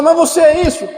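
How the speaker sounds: high, loud mock parent question. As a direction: ask it like a surprised parent.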